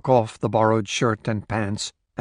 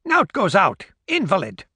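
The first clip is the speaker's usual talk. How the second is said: put-on old woman voice; 8 semitones higher than usual. Old woman answers stranger.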